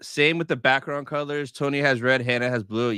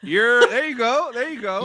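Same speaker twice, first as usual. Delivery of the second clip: a light New York accent coaching you're; New York accent, playful; 9 semitones higher than usual. Shown as a demonstration. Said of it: "that's how you do it".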